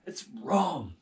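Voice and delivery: loud earnest leader; David talking his soldiers down; David explaining. Acted. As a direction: reason with the men firmly. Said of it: "And he said".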